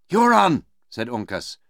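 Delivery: high, loud challenge to an enemy; loud threat. Acted. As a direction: call out the enemy forcefully. Uncas threatens Magua.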